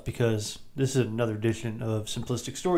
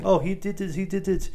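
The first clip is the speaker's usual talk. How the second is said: higher, sing-song accusing; mock tattling; 8 semitones higher than usual. Arnold setting mobsters against each other, higher mock tattling. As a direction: point fingers like a tattletale. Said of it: "by saying".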